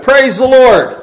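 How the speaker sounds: loud, high shouted praise; joyful shout. Acted. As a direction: proclaim it boldly from the front porch. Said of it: "she would stand on her front porch and shout".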